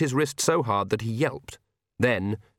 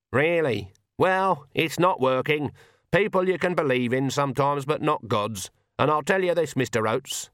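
lightly voiced Granny, raised pitch; a touch of brusque old-witch argument; lightly put-on Granny, insisting; stern Granny; 4 semitones higher than usual. Granny argues with Oates.

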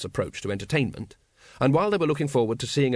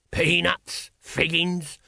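raised whining vendor's cry; 5 semitones higher, much slower than usual. A narrator's reading. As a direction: whine out the wares, drawn out. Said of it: "whined a voice behind them".

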